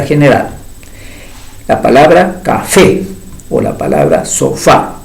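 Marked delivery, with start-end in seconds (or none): 2.4-3.0 "café" with a stressed final "fé"; stress on last syllable. Shown as a demonstration. Teacher giving an example of agudas, "café" stressed on "fé". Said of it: "que llevan el acento en la primera sílaba". 4.2-5.0 "sofá" with a stressed final "fá"; stress on last syllable. Shown as a demonstration. Teacher giving an example of agudas, "sofá" stressed on "fá". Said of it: "acento ortográfico".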